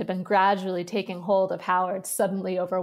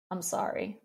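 muttered; 6 dB quieter than usual. Acted. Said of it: "the little girl muttered".

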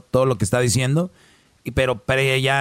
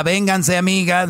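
mimicking her higher, rallying her friends; hammed-up mock call to the girls; a host mocks a woman calling her friends to back her; 5 semitones higher than usual. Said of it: "me está, o sea".

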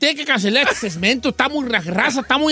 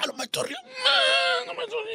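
tiny high strained squeak; stifling laughter; 12 semitones higher, 9 dB quieter, much faster than usual. Real, not acted. Host insisting he is not laughing, squeaking with suppressed laughter. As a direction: squeeze it out, nearly voiceless from held-in laughter. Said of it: "por qué está pujando".

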